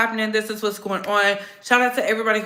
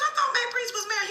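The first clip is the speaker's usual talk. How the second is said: high surprised; 13 semitones higher, faster than usual. Retold or imitated. Retold high quote.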